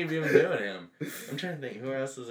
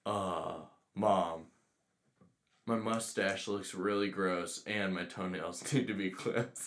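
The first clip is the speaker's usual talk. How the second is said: lower, soft, slow, droning; low monotone impression; 7 semitones lower, 6 dB quieter, slower than usual. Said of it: "No, it's more like".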